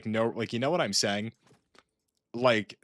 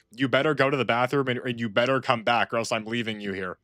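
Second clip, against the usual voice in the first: a half-hearted imitation of a yelling mother, fading at the end; mild mock yell. Telling friends about a mother threatening her kid, mild mock yell. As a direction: lightly act out the angry mom's threat. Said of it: "'cause she was yelling the whole time".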